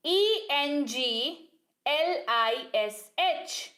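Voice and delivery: slow letter by letter spelling; spelled out slowly. Shown as a demonstration. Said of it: "इसको पढ़ते हैं इंग्लिश".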